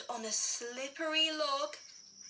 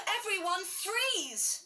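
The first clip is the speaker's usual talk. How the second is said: call out; 5 semitones higher than usual. Acted.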